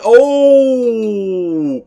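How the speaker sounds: rising high, loud cry; excited shout. Real, not acted. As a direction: call it as the ball races away. Ball rolls back down.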